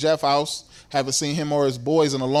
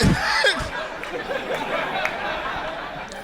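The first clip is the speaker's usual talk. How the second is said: laugh. Acted. Comic reaction to friend's answer.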